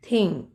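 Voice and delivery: थिंग starting with an aspirated थ; short, falling थिंग, opening on थ. Shown as a demonstration. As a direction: teach थिंग with a clear थ at the front. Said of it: "यहाँ भी थ का sound".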